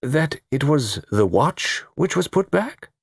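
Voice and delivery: slow, high, wondering question; drawn-out incredulous realisation; slowly dawning. A narrator's reading. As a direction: piece it together word by word. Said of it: "he said slowly".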